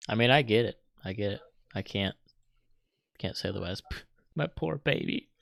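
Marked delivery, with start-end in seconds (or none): 4.3-5.3 high, plaintive lament; mock-mournful. Real, not acted. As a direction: lament it like a wounded pet's owner. Mourns his losing favourite movie.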